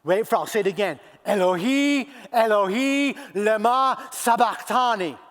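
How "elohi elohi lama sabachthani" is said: higher, louder cry to God. Acted. Jesus crying to God in the dark, crying out. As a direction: call out the Aramaic from the cross. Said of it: "And Jesus cries out".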